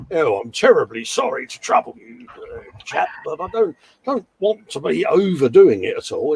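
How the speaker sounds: mock polite British officer. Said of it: "He's so British".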